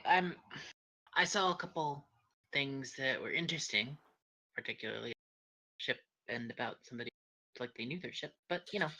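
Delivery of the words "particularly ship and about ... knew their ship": trailing off soft and low. Real, not acted. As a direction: let the sentence fade quietly. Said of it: "please don't talk so low when you finish sentences".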